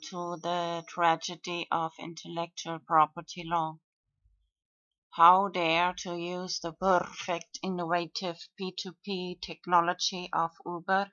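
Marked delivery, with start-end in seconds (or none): 5.1-11.1 dry sarcastic mock outrage. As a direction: sneer it as fake indignation.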